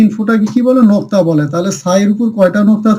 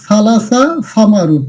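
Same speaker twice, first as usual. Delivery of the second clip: slow demo; slower than usual. Shown as a demonstration. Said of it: "আপনারা দেখুন".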